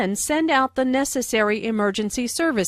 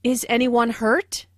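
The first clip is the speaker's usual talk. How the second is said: "hurt" rising at the end; mildly worried question, tune going up on "hurt"; 2 semitones higher than usual. Shown as a demonstration. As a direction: raise the pitch on "hurt" as a yes-no question. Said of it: "asked in a worried way".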